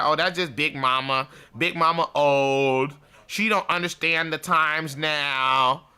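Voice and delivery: drawn-out mock dismissal; stretched, scoffing girl imitation; dismissive young girls. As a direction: imitate girls brushing off an elder, slowly. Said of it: "suck your teeth like you girls do".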